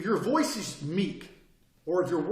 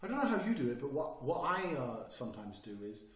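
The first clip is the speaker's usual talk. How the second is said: mock hesitant pitch. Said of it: "If I sat there and go".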